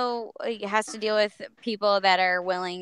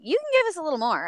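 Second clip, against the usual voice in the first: higher, quick coaxing quote; lightly singsong urging, said fast; imitating a director asking for more; 10 semitones higher, faster than usual. Retold director urging more energy.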